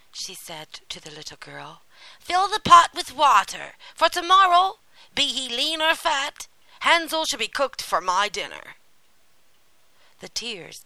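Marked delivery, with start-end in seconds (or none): 2.2-8.8 high, very loud witch commands; impatient old witch. A narrator's reading. Witch orders Gretel to prepare the pot, loudly impatient. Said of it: "the old witch lost patience".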